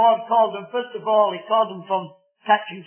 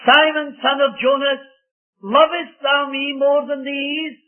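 pleading question; 5 semitones higher, 4 dB louder than usual. Acted. Preacher voices Jesus questioning Peter.

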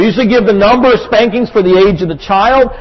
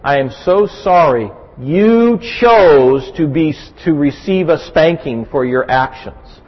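gentle sorrowful parent; 3 semitones lower, slower than usual. Retold or imitated. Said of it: "usually I'll say at that point".

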